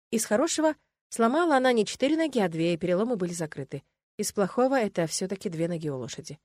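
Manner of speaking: plain reading voice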